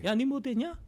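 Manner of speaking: put-on threatening Korean-Chinese thug accent; Korean-Chinese accent, menacing. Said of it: "조선족 말투로 협박을 한다".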